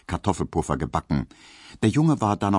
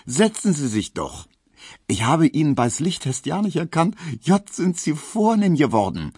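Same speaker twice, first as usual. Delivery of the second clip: hoch und berlinernd, eifrig geschwätzig; Berliner Hausmeisterin; 6 semitones higher than usual. Acted. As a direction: als neugierige Berliner Portiersfrau, höher gesprochen. Frau Piesecke spricht. (hohe, berlinernde Stimme der Hausmeisterin)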